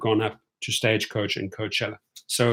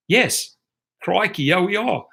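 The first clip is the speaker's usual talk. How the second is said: higher-pitched mock Australian reply; Australian accent; 5 semitones higher than usual. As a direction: answer as Australian passengers, accent put on. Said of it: "you guys from Australia".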